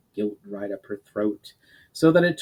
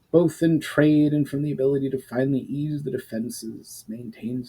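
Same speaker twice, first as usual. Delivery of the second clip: lightly voiced stern duke, measured; a hint of a grave old lord; stern noble father; 4 semitones higher than usual. The Duke voices his unease.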